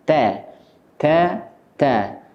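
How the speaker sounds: "ta" light and thin, not heavy; "ta" kept forward and thin; repeated thin "ta". Shown as a demonstration. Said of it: "harus dibaca tipis".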